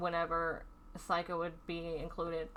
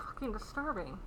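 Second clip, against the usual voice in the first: exhausted whisper; 3 semitones higher, 6 dB quieter than usual. Real, not acted. Worn out after venting about a dangerous man, whispered. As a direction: whisper it, drained and disgusted.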